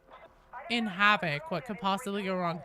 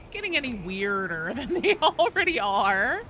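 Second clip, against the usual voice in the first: laughing through it. Real, not acted. Joking with friends about their weird dynamic, laughing. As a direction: laugh out the end of the sentence.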